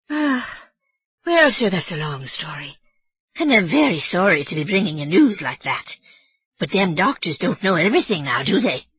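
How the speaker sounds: put-on old Irish housekeeper explaining herself nervously; Mrs Leahy.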